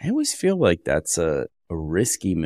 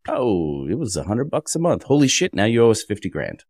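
higher-pitched, acted disbelief at a bill; mock shock; 5 semitones higher, 3 dB louder than usual. Acting out a customer's sudden billing jump, in mock shock. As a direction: build from a casual "oh" to high, louder mock alarm.

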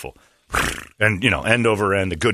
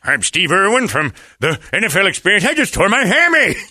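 laughing mock countdown; 10 semitones higher, 5 dB louder, slower than usual. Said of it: "they're like".

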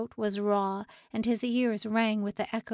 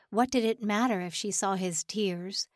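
whisper. Shown as a demonstration. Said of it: "unvoiced whisper".

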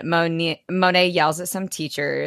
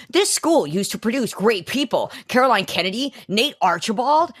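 mock teacher nostalgia; 4 semitones higher than usual. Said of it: "Basket's like".

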